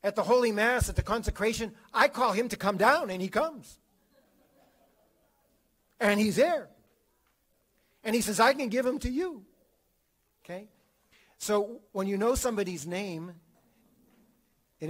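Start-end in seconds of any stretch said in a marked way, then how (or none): 0.0-9.5 high, loud, ardent testimony; fervent declaration. Retold or imitated. Saint telling the guy about the Mass, high loud fervent. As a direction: proclaim it with burning wonder.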